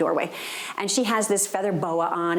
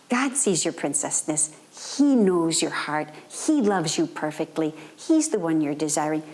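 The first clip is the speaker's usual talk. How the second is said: tender reassurance; 4 semitones lower than usual. Retold or imitated. Speaking to the niece.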